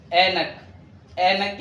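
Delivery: عينك starting like alif, "ainak"; Urdu pronunciation. Shown as a demonstration. Teacher shows spelling versus sound, عينك with vowel onset. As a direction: drop the pharyngeal from عينك. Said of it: "لكن ينطق من الألف".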